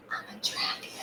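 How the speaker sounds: breathy whispered words dissolving into laughter; laughing confession. Retold or imitated. Telling the shaman she is a dragon, whispered through laughter.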